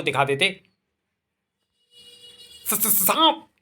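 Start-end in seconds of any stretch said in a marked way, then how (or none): 2.7-3.5 higher stuttered gasp of fear; stammering fright. Acted. Man spots a snake, terrified stammer. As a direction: stumble on the word in terror.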